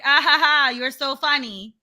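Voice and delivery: mock them with a fake laugh; sarcastic fake laugh. Sister retells a sarcastic fake-laughing reply to a stranger. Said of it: "And I'm like".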